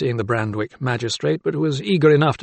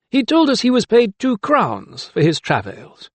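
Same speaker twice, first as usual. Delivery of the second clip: higher-pitched, mannered magistrate; 10 semitones higher than usual. A narrator's reading. Magistrate explaining news to doctor, high-pitched. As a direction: pitch it up for a self-satisfied official.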